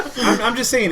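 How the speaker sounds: laughing it off. Real, not acted. Zach laughing as he defends his advice. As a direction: push through the laugh.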